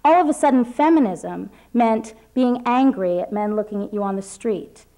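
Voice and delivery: measured, deliberate reading voice; reading an essay aloud. Acted. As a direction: read it like a personal essay. Reads her prepared essay aloud.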